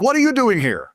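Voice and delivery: high, surprised question from the guards. Retold or imitated. Prison guards ask the famous inmate, surprised and high. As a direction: act out the guards' disbelief.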